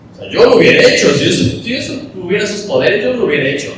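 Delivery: high, loud scoffing know-it-all; complaining bystander. Acted. Mourner mocking Jesus for not healing, high and loud. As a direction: sneer that you would have done better. Voicing complaining crowd members.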